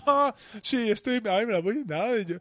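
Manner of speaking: mock her back, childish and smug; gloating refusal. Mocking refusal to share cake.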